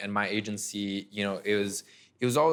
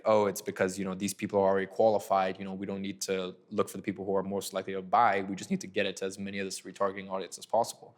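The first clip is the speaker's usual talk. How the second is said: put-on Colombian accent. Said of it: "in his Colombian accent".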